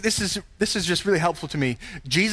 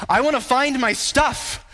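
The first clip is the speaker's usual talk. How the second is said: higher, slow whiny complaint; mock whine; 6 semitones higher than usual. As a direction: whine like a child wanting its stuff back. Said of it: "mock selfish prayer".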